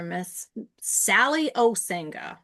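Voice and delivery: "Sally Osinga" said slowly, each part drawn out; teacher's own pronunciation. Retold or imitated. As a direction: imitate how the teacher says "Sally Osinga". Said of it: "I had to say it like she says it".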